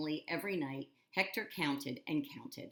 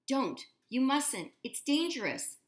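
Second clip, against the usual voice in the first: higher, louder alarmed shout; cried out; 9 semitones higher, 6 dB louder than usual. A narrator's reading. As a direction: shout to stop him. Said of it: "Hector cried out".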